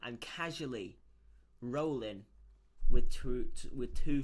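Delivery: loud, amused disbelief; excited. Real, not acted. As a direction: announce it, thrilled. Excited at the roll result.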